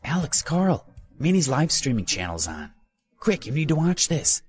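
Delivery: high-pitched, excited call; excited shout. A narrator's reading. Ben calls roommates to watch the livestream, excited shout. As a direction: call the friends over, thrilled. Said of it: "Ben shouted excitedly".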